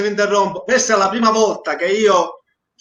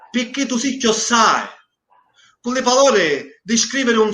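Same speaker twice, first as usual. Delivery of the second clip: poem recitation. Acted. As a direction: recite it line by line, letting each verse hang. Reads his Sicilian poem aloud. (poesia declamata lentamente, con pause)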